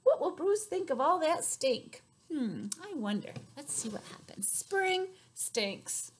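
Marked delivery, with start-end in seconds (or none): 3.6-6.1 hushed, secretive whisper; storyteller whispering the title to the children. Acted. Whispered book title reveal.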